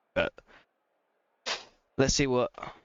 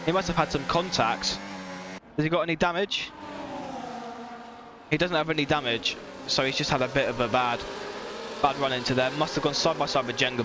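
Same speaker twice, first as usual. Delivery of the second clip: motorsport commentator; 2 semitones higher than usual. Acted. Live race play-by-play commentary.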